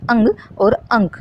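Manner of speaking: अंग and अंक said slowly, nasal sound clear; nasal demo words. Shown as a demonstration. Teacher shows anusvara in example words: slow, careful nasal. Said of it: "आप महसूस करेंगे कि नाक के द्वारा हवा".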